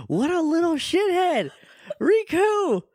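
high, exasperated squawk; play-scandalized cry, way up high; mock outrage. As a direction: scold him in a high-pitched voice. Listener scolds the character in outrage.

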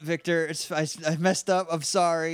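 sheepish apology. Acted. Apologizing to Victor.

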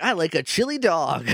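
"I like a chili dog" with off rhythm; wrong cadence. Retold or imitated. Podcaster imitating misread Sonic lines, off cadence. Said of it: "didn't know the cadence that they were supposed".

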